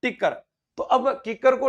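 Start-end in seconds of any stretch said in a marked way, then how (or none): 0.0-0.3 टिक्कर with a hard ṭ in place of k; Bagri-style टिक्कर for kikkar; Bagri mispronunciation. Shown as a demonstration. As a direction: say टिक्कर, starting on retroflex ṭ. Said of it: "क्या बोलता था हमारे बागड़ी में".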